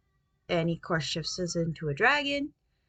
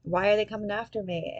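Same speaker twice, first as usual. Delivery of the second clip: put-on panicked girl; 3 semitones higher than usual. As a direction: play her alarmed and rushed, half-hammed. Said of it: "Isolotl is like".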